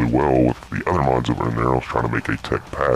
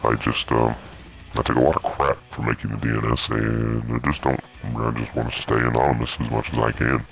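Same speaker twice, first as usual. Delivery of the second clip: voice changer. Real, not acted. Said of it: "what's the deal with the voice changer".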